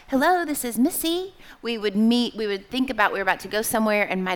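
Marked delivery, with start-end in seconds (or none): 0.1-1.4 put-on high-pitched practised child's greeting; rehearsed phone greeting. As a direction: answer the phone like a well-drilled child. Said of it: "we would practice answering the phone".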